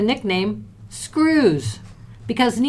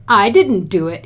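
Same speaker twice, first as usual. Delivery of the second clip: mouth full; 5 dB louder than usual. Acted. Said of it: "he mumbled with his mouth full".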